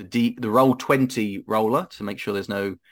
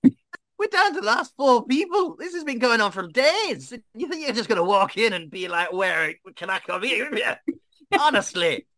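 ranting dwarf; 11 semitones higher than usual. Acted. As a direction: tear into the newcomer as a fed-up dwarf. Gruff dwarf competitor rants at player.

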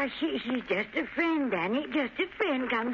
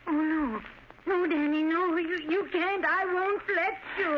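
higher, urgent protest; distressed pleading; 5 semitones higher than usual. Acted. Mother holding back son Danny, distressed pleading. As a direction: beg him desperately not to go.

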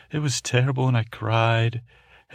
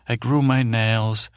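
proud boast; 6 dB louder than usual. Acted. Cat boasting to the listener.

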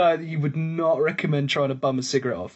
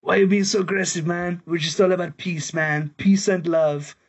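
stoned hippie; 4 semitones higher than usual. Retold or imitated. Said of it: "He's like".

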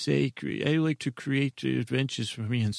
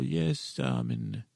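bubbly cauldron voice; 11 semitones lower, slower than usual. Pretend. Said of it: "that's even better with the way you're talking weird".

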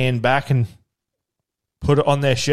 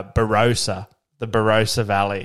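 American accent; 2 semitones lower than usual. Shown as a demonstration. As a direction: imitate an American saying Barossa. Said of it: "and they would say".

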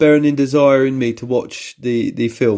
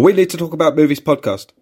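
higher-pitched take on the show name; alternative title delivery; 6 semitones higher than usual. Shown as a demonstration. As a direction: offer the title back in a raised, put-on voice.

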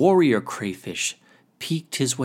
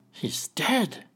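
little crayfish voice; 7 semitones higher than usual. Acted. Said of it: "said the crayfish".

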